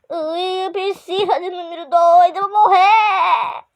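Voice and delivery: fake-crying mock wail; hammed-up despair. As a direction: whine dramatically that you'll die. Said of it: "Para esse drama".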